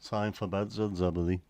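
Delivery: put-on Scouse-accented catchphrase; the line in Scouse. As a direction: quote it as a Scouser would. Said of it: "hear that in a Scouse accent".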